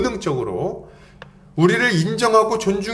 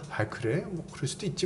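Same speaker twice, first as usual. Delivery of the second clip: much softer, relaxed shrug of a reply; easygoing, laughing it off; 14 dB quieter than usual. Retold or imitated. Preacher shows a gentle person's reply, much softer and easy. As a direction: brush it off lightly, at ease. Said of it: "여유 있게 허허 웃으면서".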